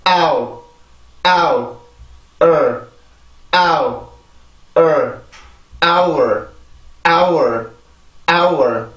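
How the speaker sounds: "아우" and "을" apart, then joined as "hour"; pronunciation drill. Shown as a demonstration. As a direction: model "hour" built up from "아우" plus R-colored "을". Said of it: "해봅니다". ("아우"와 "을"을 따로, 이어서 "hour"로 또박또박 발음)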